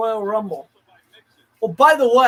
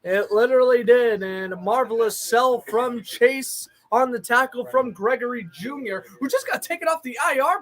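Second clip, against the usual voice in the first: lively broadcast call of the down; steady play-by-play with quick asides. Acted. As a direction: narrate the snap like a TV announcer.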